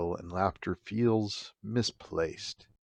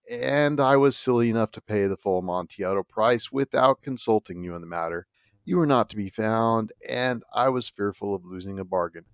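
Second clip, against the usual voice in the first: a touch of feigned regret; 3 dB louder than usual. Acted. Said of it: "I replied".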